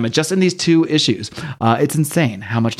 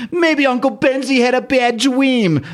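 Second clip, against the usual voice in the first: put-on high, slow little-kid voice; toddler voice; 11 semitones higher, slower than usual. Little Franklin waking up, talking to the family in a high, slow toddler voice. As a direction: lightly play a sleepy two-year-old.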